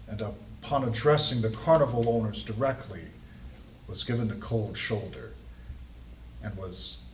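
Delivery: mildly hushed character voice, halting between phrases; soft voice. Acted. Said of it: "he continues to say that".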